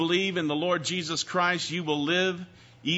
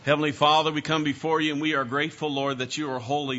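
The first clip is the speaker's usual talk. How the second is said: prayer. Acted. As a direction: pray humbly to God.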